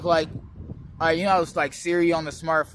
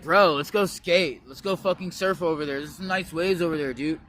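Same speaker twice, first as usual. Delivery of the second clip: Californian surfer dude. Shown as a demonstration. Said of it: "Michelangelo sounds like".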